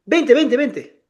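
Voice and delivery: rapid-fire repeated command, lightly acted; quick urging. Young woman urgently calling him over on the street, retold quick urging. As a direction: imitate someone hurriedly summoning you. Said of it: "Así rápido, me dijo".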